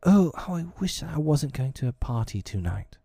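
anxious mother's lament; crying out anxiously. A narrator's reading. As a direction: exclaim it with worry. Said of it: "made her cry".

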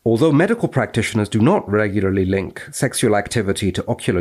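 crisp academic recitation; formal read-aloud. Acted. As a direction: read it out like the journal text. Reading the paper aloud.

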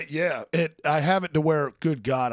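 rattly chesty voice, clearing throat; phlegmy voice. Real, not acted. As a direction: talk through a throat full of phlegm. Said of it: "I sound phlegmy as shit right now".

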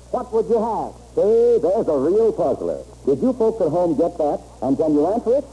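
booming vintage radio announcer; old radio announcer. Acted. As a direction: sell it like a 1940s broadcast. Old radio show introduction.

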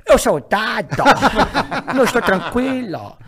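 imitating dad's deadpan Dado through laughter; dad playing Dado. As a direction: ham up the father's stubborn Dado. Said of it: "é só tu fazer o carioca".

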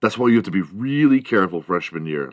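ordinary talk

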